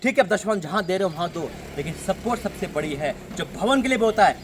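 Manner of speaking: emphatic exhortation with forceful bursts; insistent sermon delivery; fervent preaching. Real, not acted. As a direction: urge the congregation with surging conviction. Exhorts congregation to support.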